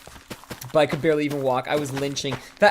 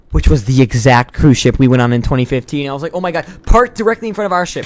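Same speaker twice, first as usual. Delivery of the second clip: excited; 12 dB louder than usual. Real, not acted. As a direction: shout it out, amazed. Spotting the same cruise ship.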